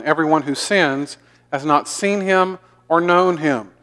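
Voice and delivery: measured, deliberate Bible reading; scripture reading. Acted. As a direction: read God's word aloud slowly, with weight on key phrases. Reads scripture aloud.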